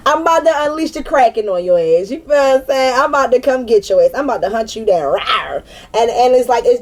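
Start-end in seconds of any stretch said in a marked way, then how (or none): 0.1-5.6 higher, playful threat of a prowling panther; a lightly voiced big cat ready to pounce; fierce panther. Voicing the panther card's fierce threat, mock menace. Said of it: "the panther is, like, fierce".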